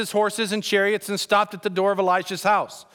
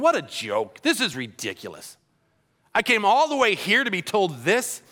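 imitated indignant griping; mock ticked off. Naaman rants about the silly river directions, mock indignation. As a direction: complain like an insulted bigshot. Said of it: "He's ticked off".

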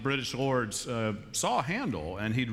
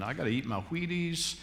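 mock frantic rush; 2 semitones higher, faster than usual. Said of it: "You're thinking".

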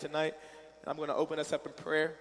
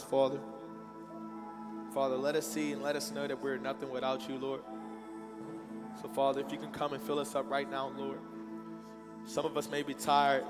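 prayer. Real, not acted. Leads congregation in prayer.

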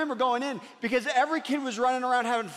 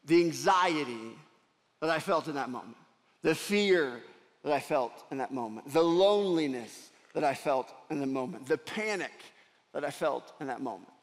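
hushed reliving; 7 semitones lower than usual. Real, not acted. Pastor reliving being lost as a child, low and hushed. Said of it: "can feel right now in my gut".

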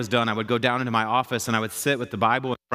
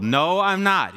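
higher-pitched mock protest; indignant contradiction; 6 semitones higher, 4 dB louder, much slower than usual. Young pastor telling God he's wrong, indignant contradiction. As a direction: push back in a raised, disbelieving voice. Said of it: "tell God that he's wrong".

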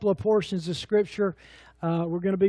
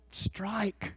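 a feeble, hesitant call, much softer; weak, tentative; 14 dB quieter than usual. Retold or imitated. Umpire who never saw the fast pitch, weak tentative call. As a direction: call it out very softly and unsurely. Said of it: "cried out in a weak voice".

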